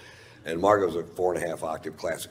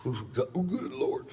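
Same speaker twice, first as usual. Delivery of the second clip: amazed; 7 semitones higher, 5 dB quieter than usual. Retold or imitated. Savoring amazing whiskey.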